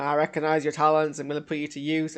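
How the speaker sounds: a light put-on accent, barely shifted; put-on accent for Val. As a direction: voice Val with a mild unnamed accent. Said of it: "why I'm putting this accent on".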